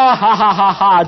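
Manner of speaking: slow happy laugh; slow, loud, glad laughter; joyful laugh. Real, not acted. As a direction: laugh out with relief. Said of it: "laugh heard".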